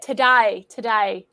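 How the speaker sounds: "Today" with the vowel widened towards "to-die"; Australian A sound. Retold or imitated. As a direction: try "today" the Aussie way. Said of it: "A sound".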